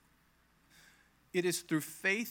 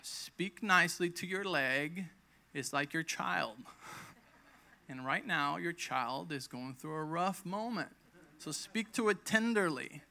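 higher, gently coaxing doctor, slow in places; a hint of a patient doctor soothing; doctor calming her; 3 semitones higher, slower than usual. Doctor calming a frustrated patient, lightly voiced. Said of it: "he's like".

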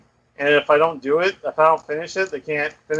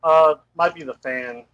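bluetooth headset mic. Real, not acted. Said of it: "Are you talking through the fan".

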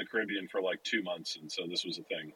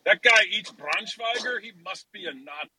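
a scandalized neighbor, hammed up; mocking bystander; 9 semitones higher, 4 dB louder than usual. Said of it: "It's gonna be good times".

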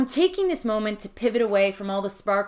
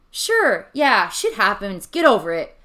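slow, louder, callous brush-off; dismissive asshole tone; 5 dB louder than usual. Shown as a demonstration. Mocking the tough-love line to listeners, callous and slow. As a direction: say it like you don't care at all. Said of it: "God, I sound like an asshole".

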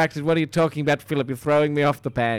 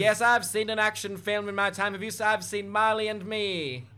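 higher, softer chirpy receptionist; put-on receptionist; 6 semitones higher, 4 dB quieter than usual. Receptionist tells action star what films she knows, high-pitched. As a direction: humour the caller in a high voice.

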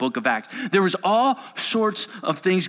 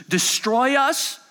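scared demon; 10 semitones higher, slower than usual. Acted. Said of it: "It continues".

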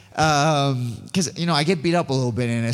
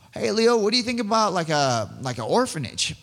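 excited; 7 semitones higher than usual. Retold or imitated. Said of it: "I'm freaking out".

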